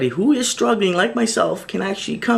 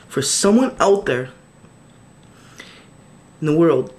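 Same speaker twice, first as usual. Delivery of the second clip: pleading, feeling it catch in the throat; a man moved while asking for help; getting emotional; 4 semitones higher than usual. Real, not acted. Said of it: "Sorry, I'm getting a little bit emotional here".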